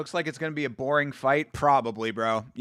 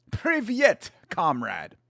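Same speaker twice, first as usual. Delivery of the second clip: Privyet pitched high and punched, comrade dropped; hammed-up comrade greeting; mock Russian greeting; 3 semitones higher, slower than usual. Host greets Russian fighter playfully, mock Soviet. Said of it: "did I say it okay?".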